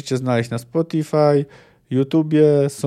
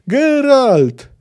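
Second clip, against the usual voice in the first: high, loud cry of his name; child's desperate call; 11 semitones higher, 7 dB louder than usual. Acted. Little Ciri calls after departing Geralt, high loud cry. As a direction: call after him from the hilltop.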